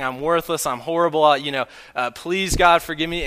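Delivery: half-mocking self-abasing plea; mock groveling. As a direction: beg God like a wretch, overdone. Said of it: "groveling on the ground and saying".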